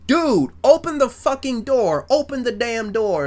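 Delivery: high, loud mock yell at a friend. Fritz yelling at Michael to open the door, loud mock yell. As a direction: shout it through the door like a scared coworker. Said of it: "Fritz basically yelling".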